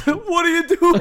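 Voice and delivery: high mock Boston accent. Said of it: "Boston accent".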